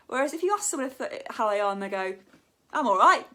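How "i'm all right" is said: casual and true. Shown as a demonstration. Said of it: "it just seems true".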